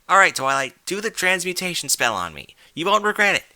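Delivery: loud, high, eager demand. A narrator's reading. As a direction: push her to cast it now. Rainbow eager demanding the spell.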